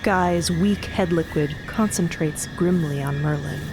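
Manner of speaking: usual speaking voice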